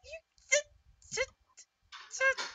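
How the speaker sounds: high gruff Scottish giant; Scottish accent. Acted. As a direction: bark it in a Scottish brogue. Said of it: "I'm doing a Scottish accent".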